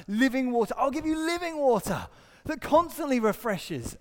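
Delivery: high, loud proclamation; impassioned preaching. Acted. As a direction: proclaim it forcefully. Promise repeated with preaching force.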